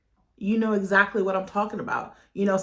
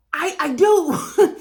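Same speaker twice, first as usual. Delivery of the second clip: voice breaking; 8 semitones higher, 8 dB louder, much slower than usual. Real, not acted. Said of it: "emotional affirmation, voice shifts".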